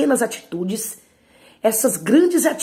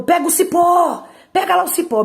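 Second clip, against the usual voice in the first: much higher and louder, barking the command; angry mother's order; 10 semitones higher, 6 dB louder than usual. Retold or imitated. Enraged mother shouting at her child to fetch the switch.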